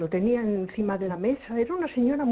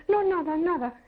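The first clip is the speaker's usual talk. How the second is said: evasive denial; 10 semitones higher than usual. Retold or imitated. Teller evasively denies seeing anything.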